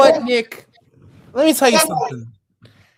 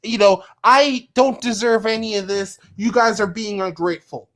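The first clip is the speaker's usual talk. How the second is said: mock self-pity; 5 semitones lower than usual. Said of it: "You just wanna act like".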